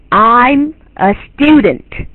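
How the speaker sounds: very slow, drawn-out "I'm a student"; careful model pronunciation. Shown as a demonstration. Teacher correcting a learner's poor imitation, careful model pronunciation. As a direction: stretch each word of "I'm a student" with full melody. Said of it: "这就不是这样".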